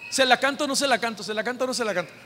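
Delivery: fast, fretful mumble that fades; a lad muttering his doubts to himself; nervous young man. Retold or imitated. Preacher imitating a nervous young suitor, fast mutter. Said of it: "Como el jovencito, que en ocasiones dicen".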